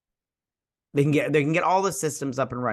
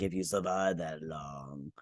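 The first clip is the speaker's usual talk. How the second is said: menacing threat; 8 semitones lower, 11 dB quieter than usual. Retold or imitated. Villain's threat retold in recap.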